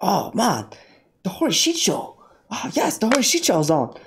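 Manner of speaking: put-on caricatured Asian accent, pleased; mock Asian accent. Streamer imagining an Asian viewer naming his show, mock Asian accent. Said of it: "imagine an Asian person going".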